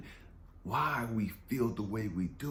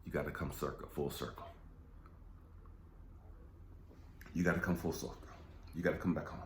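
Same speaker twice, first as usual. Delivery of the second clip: 1 voice of God; 7 semitones lower, 7 dB quieter, much faster than usual. Retold or imitated. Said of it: "God had to show him".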